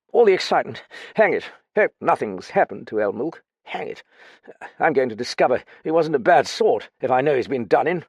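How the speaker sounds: lightly voiced boozy ex-officer; drunk lieutenant. Drunk Graffin rambling.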